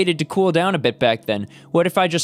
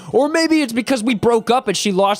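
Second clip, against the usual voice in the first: guilty outburst; 6 semitones higher than usual. Acted.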